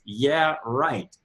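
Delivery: low, dry "Yeah, right" said flatly; the doubting brain scoffing back; sarcastic brain. Retold or imitated. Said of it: "your brain says".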